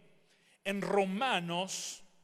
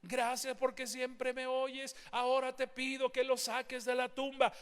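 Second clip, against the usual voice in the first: mock flowery prayer; 5 semitones higher than usual. Mocking a prayer Jesus did not pray, mild pious tone. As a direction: parody a long-winded prayer. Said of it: "Él no se puso a orar".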